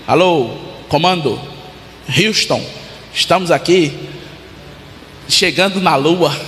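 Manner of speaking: calling base over the radio; soldier on the radio. Retold or imitated.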